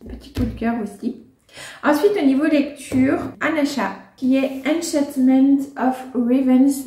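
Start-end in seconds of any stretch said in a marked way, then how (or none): 4.7-6.9 English title read with a strong French accent. Real, not acted. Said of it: "avec mon magnifique accent anglais". (titre anglais prononcé avec un fort accent français)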